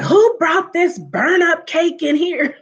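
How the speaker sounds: high, slow, loud tactless question; imitating a tactless aunt shouting; blunt loud aunt. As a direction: call it out across the room, no filter. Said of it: "She was like".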